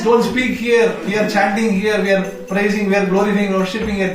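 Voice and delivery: high, insistent mild reprimand; scolding. Acted. Servants rebuking Gopakumar in the temple, scolding. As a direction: lecture him on proper conduct. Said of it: "they are scolding".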